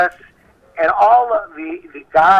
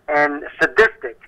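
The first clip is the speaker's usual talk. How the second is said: slow, weighted "sadistic" set apart with a pause; emphasized sadistic; 2 semitones lower than usual. Real, not acted. Host warning guests that the claims are grave, slow stress on "sadistic". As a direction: lean hard on "sadistic", said slowly. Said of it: "I emphasize the word sadistic".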